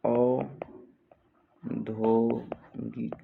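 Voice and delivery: very slow, spaced-out औद्योगिक; syllable by syllable. Shown as a demonstration. Teacher dictating a spelling word, औद्योगिक slowly in syllables. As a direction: break औद्योगिक into drawn-out syllables.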